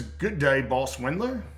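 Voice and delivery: loud, high-pitched bad British accent; horrible British accent. Host reading out a viewer's greeting, horrible British accent. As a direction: put on a hammy, badly faked British accent. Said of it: "That was my horrible British accent".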